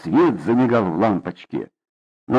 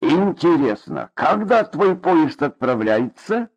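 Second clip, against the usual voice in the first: mocking; 4 semitones higher than usual. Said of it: "насмешливо, как ребёнку".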